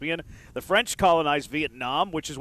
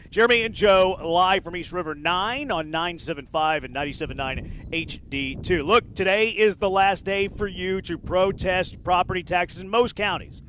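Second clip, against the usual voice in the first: radio ad read; 3 semitones higher than usual. Acted. Reads a radio ad.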